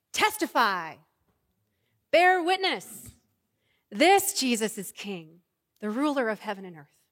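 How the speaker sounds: loud, slow ringing proclamation; loud slow proclamation of a heavenly cry; proclaimed cry. Acted. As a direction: call it out like a herald. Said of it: "the cry of revelation".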